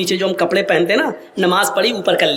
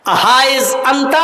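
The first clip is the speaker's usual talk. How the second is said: Umar repeats call; 4 semitones higher, slower than usual. Retold or imitated.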